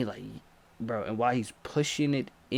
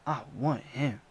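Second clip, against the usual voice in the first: quiet fixated murmur; obsessed whisper-like repeat; lightly voiced attacker; creepy soft; 5 dB quieter than usual. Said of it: "They like".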